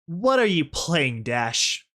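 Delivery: slow, mildly growled question; growled challenge. Acted. Rebel confronting Rainbow Dash in the hall, growling. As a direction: demand an answer, growling a little. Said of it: "I growled".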